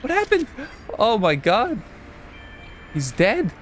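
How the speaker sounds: high-pitched play-acted shock; hammed-up horror with a gasp; mock panic. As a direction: squeal in over-dramatic dismay. Mock alarm at mishap in game.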